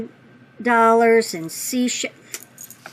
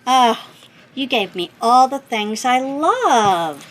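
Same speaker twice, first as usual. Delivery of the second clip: slower and louder, rising with joy; delighted; 4 semitones higher, 5 dB louder than usual. Real, not acted. Thanking the sender, delighted and louder. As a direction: gush with happiness. Overjoyed at gifts.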